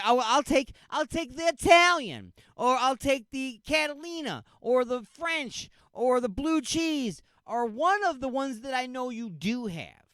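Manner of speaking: high, cheerful polite customer voice; polite reasonable customer. Retold or imitated. Customer calmly picking another dressing, high and polite. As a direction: sweetly list the dressings, high and light. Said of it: "be like".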